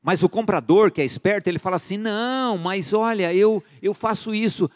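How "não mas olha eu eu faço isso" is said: high-pitched, drawn-out mock bargaining; haggling buyer. Shrewd buyer making the seller an offer, mock wheedling. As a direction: play a wheedling customer, pitched well up.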